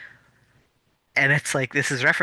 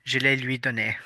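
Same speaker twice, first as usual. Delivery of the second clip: lightly French-accented Je l'ai lui donné. Shown as a demonstration. Showing the short French version to a friend, lightly French-accented.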